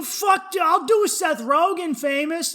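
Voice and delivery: high, loud, thrilled acceptance; retold eagerness. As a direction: jump at the offer loudly.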